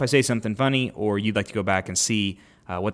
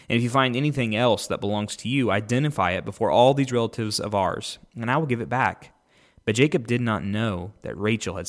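measured, lifted Bible reading; podcast host reading Genesis aloud, clear scripture reading. Acted. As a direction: read the passage out to the listeners.

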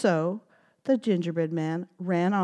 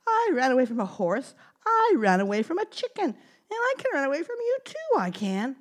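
gingerbread man voice; faster than usual. Acted. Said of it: "he said".

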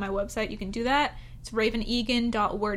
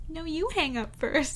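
giggly late night call; 5 semitones higher than usual. Pretend. Playful late night call game.

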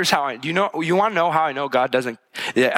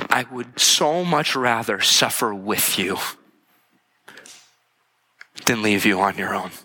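God's gentle whisper; 4 semitones lower than usual. Retold or imitated. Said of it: "God was whispering in their ears".

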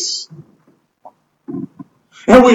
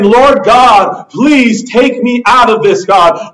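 acted plea to God; pleading; slower than usual. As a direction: plead earnestly, as if in prayer. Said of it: "We're pleading with God".

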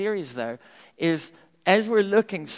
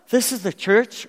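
mock wrong answer; 6 semitones higher, 6 dB louder than usual.

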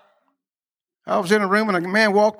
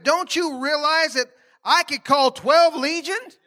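higher, slow and deliberate; Jesus, emphatic; 6 semitones higher than usual. Retold or imitated. Preacher quoting Jesus to the church, high and slow. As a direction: lean on each word as Jesus. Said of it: "Jesus said".

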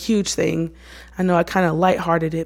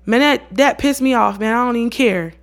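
higher, slightly punchy mock indifference; dismissive brush-off; 3 semitones higher than usual. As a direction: brush it off like you're annoyed. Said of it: "instead of being like".

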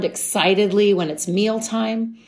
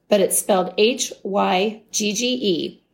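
usual speaking voice

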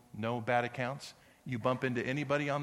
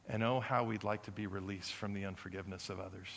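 prayer; 2 semitones lower than usual. Acted. Leads congregation in prayer.

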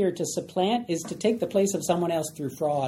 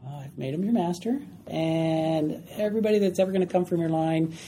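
mellow tone. Acted. Dad breaking the bad news to his son, mellow. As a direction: break it gently, in an easy even voice. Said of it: "with a little bit of a mellow tone".

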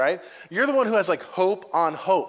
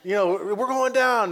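mock panic; 5 semitones higher than usual. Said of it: "they're like".

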